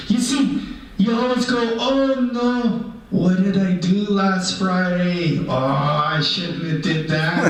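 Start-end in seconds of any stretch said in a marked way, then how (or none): 1.8-7.5 mock regretful human. Mimicking human regretting the past.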